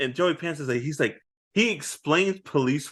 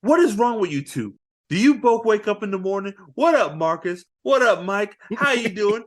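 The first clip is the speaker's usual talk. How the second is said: quick, raised mock captain scolding; fast, slightly higher fed-up captain; exasperated police captain; 4 semitones higher, 4 dB louder, faster than usual. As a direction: bark at the two cops like a fed-up boss. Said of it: "he's like".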